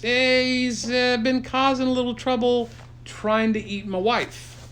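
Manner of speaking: high-pitched goofy complaining voice; high goofy character. Acted. Hero explains the Kraken trouble in a high goofy voice. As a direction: squeak it out, mildly put out. Character answering in silly story.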